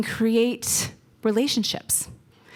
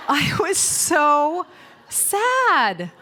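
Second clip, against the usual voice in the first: mock sad; 5 semitones higher, much slower than usual. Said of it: "this is how I felt in that moment".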